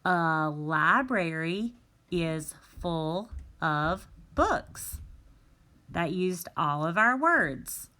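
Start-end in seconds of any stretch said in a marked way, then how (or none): 0.0-5.0 a teacher testing the unscrambled sentence; trying the fix. Shown as a demonstration. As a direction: offer the answer slowly, rising hard on books. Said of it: "What about".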